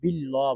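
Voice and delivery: "বিল্লাহ" said short, in a soft speaking voice; spoken, unchanted "বিল্লাহ"; common mispronunciation. Shown as a demonstration. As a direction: say "বিল্লাহ" briefly, as others misread it. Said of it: "অনেকে বিল্লাহ বলেন".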